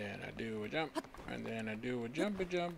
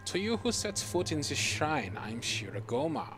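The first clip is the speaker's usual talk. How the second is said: put-on German accent. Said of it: "I can do a German accent for you".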